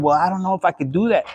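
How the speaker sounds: mocking hesitant viewer. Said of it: "you're wondering".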